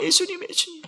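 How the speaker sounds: mock mournful lament; imitating weeping women. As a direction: cry out his name like a mourning woman. Weeping women calling Jesus.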